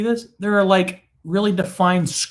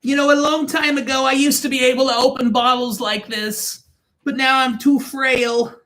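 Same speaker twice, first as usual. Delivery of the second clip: put-on old man voice; 5 semitones higher than usual. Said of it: "enough of the accents".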